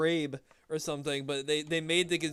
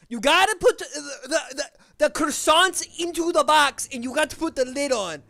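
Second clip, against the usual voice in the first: higher, louder put-on instruction voice; polite version; 12 semitones higher, 11 dB louder than usual. To a coworker about boxing croissants, higher mock-polite instruction. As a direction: spell the task out brightly to a coworker. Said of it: "how I would say it to a person".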